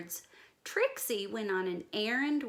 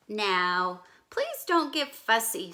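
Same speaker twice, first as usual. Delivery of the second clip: daddy warning; 5 dB louder than usual. Acted. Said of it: "said her daddy".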